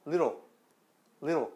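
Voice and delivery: little with a quick tongue tap, no t; little with the t gone to a tap; flapped t. Shown as a demonstration. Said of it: "이건 T 발음이 아니에요".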